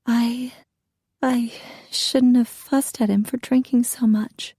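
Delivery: hushed, voiceless whisper; ashamed whisper of a battered wife. A narrator's reading. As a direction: confess it in a fearful whisper. Bruised wife confessing to officer.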